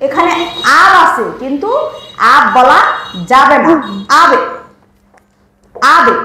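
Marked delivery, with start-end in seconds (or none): 4.2-6.1 আবে with the ব bounced; qalqala bounce. Shown as a demonstration. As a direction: push the ব down with a light echo. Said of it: "এভাবে বলতে হবে".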